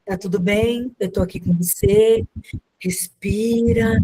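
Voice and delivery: calm comforting words, slowing at the end; soothing reassurance. Acted. Teacher to a crying child who has dysregulated, soothing. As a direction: gently talk a child down, drawing out the last word.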